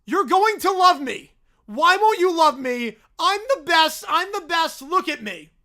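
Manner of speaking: loud slow bear yelling, fading at the end; hammed-up bear tantrum; bellowing bear. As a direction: yell it as he slams into her. Bear plows into her.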